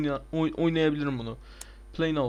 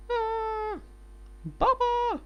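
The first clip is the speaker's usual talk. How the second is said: put-on child voice; 6 dB quieter, much slower than usual. Son character cries for dad.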